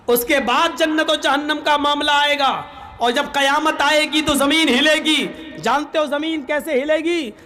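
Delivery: preachy lecturing cleric voice, dragging key words; mock sermon. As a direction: lecture them like a pompous preacher. Third maulvi lectures the others.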